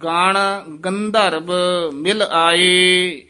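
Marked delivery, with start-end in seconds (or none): 0.0-1.5 ਗੰਧਰਵ said with a b sound, not bh; babba sound. Shown as a demonstration. Teacher correcting the reading: ਗੰਧਰਵ said with a b. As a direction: say ਗੰਧਰਵ with a plain b. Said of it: "ਗੰਧਰਵ ਬੱਬੇ ਨਾਲ ਪਾਠ".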